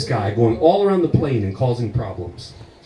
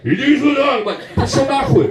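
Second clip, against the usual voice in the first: put-on Eastern European accent; 9 semitones higher than usual. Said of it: "this fat cop is like".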